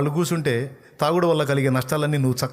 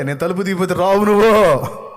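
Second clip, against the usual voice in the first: raised and loud, ending in a shout; loud rebuke; 5 semitones higher, 7 dB louder than usual. Retold or imitated. God rebuking the despairing believer, loud. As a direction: hammer the final point.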